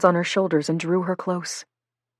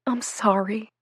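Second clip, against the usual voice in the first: whisper; 4 semitones higher, 4 dB quieter than usual. Acted. Tearful girl apologizing to Marcus.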